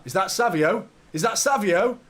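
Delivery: excited recognition. Real, not acted. Spots the new sub warming up.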